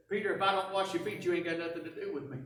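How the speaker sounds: Jesus calmly answering Peter. Acted. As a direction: settle the hothead down gently. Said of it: "as calmly as he could".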